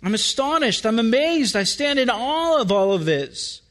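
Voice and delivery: awestruck wonder, pitch lifting on the first words; mildly hammed-up amazement; amazed awe. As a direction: marvel aloud as an astonished psalmist. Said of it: "makes David almost say".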